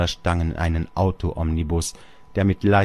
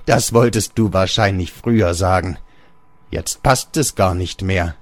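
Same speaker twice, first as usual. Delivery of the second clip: pitying aside; 4 dB louder than usual. Acted. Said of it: "Mitleidig sagte der Vater nebenbei".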